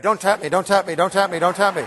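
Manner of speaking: loud, hammed-up inner panic; mock nervous pleading. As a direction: plead under your breath like a nervous student. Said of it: "had this thought go through your head".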